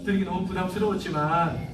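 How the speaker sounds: a touch of courteous, soft phone request; respectfully, slightly hushed; polite. Shown as a demonstration. Parent on the phone to the principal, politely. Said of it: "정중하게 부탁을".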